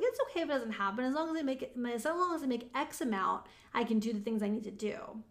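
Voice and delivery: quick self-excusing concession; going easy on oneself. Retold or imitated. Coach mimics excusing herself from her goal, easygoing. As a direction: talk yourself out of the goal. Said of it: "like, going easy on myself".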